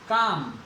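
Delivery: काम said with no L sound; silent L. Shown as a demonstration. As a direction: say काम with a long open "aa" straight into M. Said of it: "ले का उच्चारण नहीं हो रहा". (काम, बिना ल के उच्चारण के)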